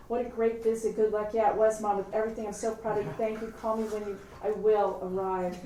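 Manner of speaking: jumbled goodbyes tumbling over each other; stumbling out jaggedly. Acted. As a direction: blurt broken parting phrases, lifted and run together. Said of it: "stumble out jaggedly".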